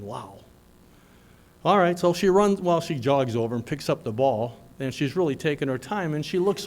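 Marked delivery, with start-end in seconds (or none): 0.0-0.4 soft, low stunned wow under the breath. Retold or imitated. Dad in the stands quietly stunned by the missed play. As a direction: let the wow drop away in disbelief.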